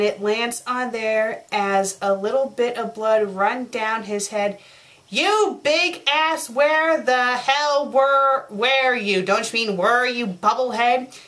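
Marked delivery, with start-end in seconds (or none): 5.1-9.2 higher, drawn-out mild mock yell; acted shout. Character scolds a latecomer in the fanfic, mock shouting. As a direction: call out the insult slowly, half-shouting. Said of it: "He shouted at him".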